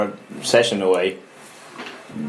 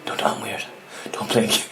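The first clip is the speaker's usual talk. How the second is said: inner panicked thought; 3 semitones lower, 9 dB quieter than usual. Retold or imitated. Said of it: "in my own head going".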